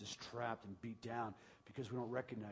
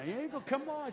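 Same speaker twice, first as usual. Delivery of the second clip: high laughing mock protest, louder; 12 semitones higher, 5 dB louder than usual. Pastor laughing as wife steals his food. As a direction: squeal it out while laughing. Playful tussle over food.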